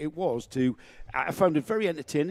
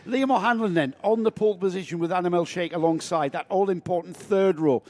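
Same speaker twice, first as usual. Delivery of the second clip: race commentary; 3 semitones higher than usual. Acted.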